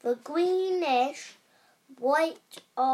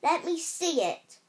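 demanding; 4 semitones higher, 4 dB louder than usual. Acted. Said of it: "demanded Dudley".

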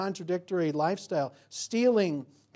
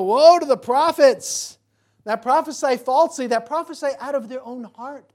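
booming divine warning; 8 semitones higher, 14 dB louder than usual. Acted. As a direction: thunder it as the voice of God. Voicing God's warning in sermon.

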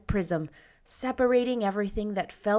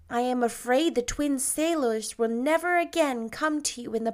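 gentle Anne, higher; 5 semitones higher than usual. Acted. Anne gently tells Paul.

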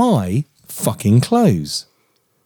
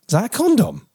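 mock wife; 8 semitones higher than usual. Husband mimics wife.

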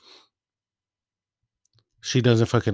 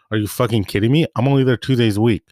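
louder and fast, fed up and ranting; indignant outburst; 3 semitones higher, 6 dB louder, faster than usual. Retold or imitated. Telling the supervisor off about drains, loud fast outrage.

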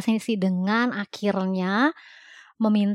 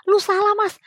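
stretched-out mock lecture, much higher; emphatic scolding; 12 semitones higher, 3 dB louder than usual. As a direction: lean hard on every word to set him straight. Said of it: "gue bilang".

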